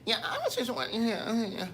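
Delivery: high, thin, soft mock white woman voice. Mocking how white folks talk, high and soft. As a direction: pitch it up high and soft like a polite white lady. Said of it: "White folks".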